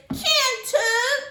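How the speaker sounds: high, loud wailing protest; crying little brother. Acted. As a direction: wail like a small boy. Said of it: "he cried".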